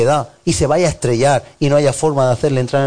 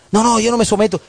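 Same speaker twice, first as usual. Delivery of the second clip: higher refusal; mock stubborn refusal; 6 semitones higher, faster than usual. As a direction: play the member refusing to submit. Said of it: "stubborn member refusing".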